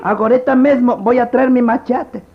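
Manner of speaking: amenaza de perdedor; villano frustrado. Acted. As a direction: jura venganza tras perder. Barbero vencido jura venganza. (villano frustrado)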